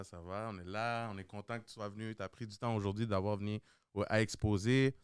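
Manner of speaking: usual speaking voice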